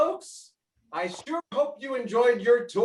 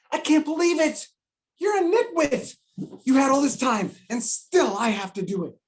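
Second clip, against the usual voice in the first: exasperated scolding; 2 semitones higher than usual. Acted. Boss scolds worker over unopened boxes.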